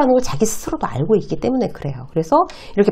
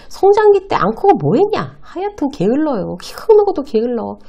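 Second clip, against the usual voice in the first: rude mocker; 7 semitones higher than usual. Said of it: "이렇게 누군가 신체적 약점에 대해서 말했어요".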